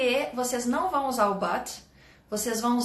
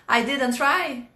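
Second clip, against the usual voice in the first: puzzled echo; 3 dB louder, much slower than usual. Real, not acted. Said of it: "O que que você quis dizer aqui?".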